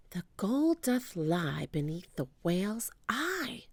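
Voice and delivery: soft breathless whisper. Acted. Jack whispers the clue to Annie. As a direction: whisper the riddle in awe. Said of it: "whispered Jack".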